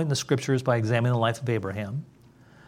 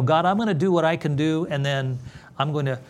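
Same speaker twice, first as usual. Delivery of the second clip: mock pious bargainer; 4 semitones higher, 3 dB louder than usual. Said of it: "Have you heard that before".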